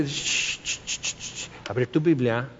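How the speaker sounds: soft hushed shushing, barely voiced; hushing whisper. Preacher hushes the binding-and-loosing crowd, whispered. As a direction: shush them and point to the Bible quietly. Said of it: "Y te".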